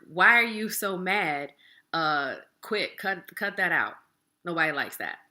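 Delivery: a loud, impatient brush-off; dismissive. Shown as a demonstration. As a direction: snap it off like you're tired of their feelings.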